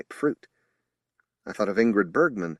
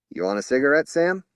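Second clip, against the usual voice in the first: drawled; 6 semitones higher, 6 dB louder than usual. A narrator's reading. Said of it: "drawled Cass".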